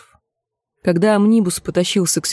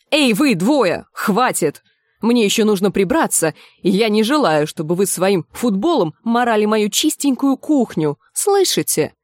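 scolding; 3 semitones higher than usual. Acted. Cook scolds two squabbling lads.

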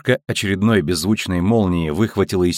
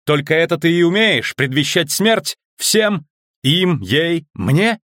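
angry shout; 8 semitones higher than usual. Acted. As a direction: yell in defiance. Triss shouting at the voice. (гневный крик)

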